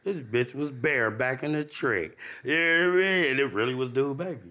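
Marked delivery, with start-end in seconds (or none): 0.0-2.2 slow, hushed, low aside; muttered realization. Retold or imitated. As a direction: mutter it slowly to yourself. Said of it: "I said".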